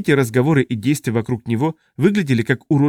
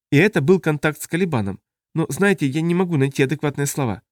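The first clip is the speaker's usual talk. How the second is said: raised-pitch alien character voice; alien Tuluk explaining; 4 semitones higher than usual. Acted. Tuluk describes his contact to colleagues, high alien voice. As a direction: explain searchingly in a higher character voice.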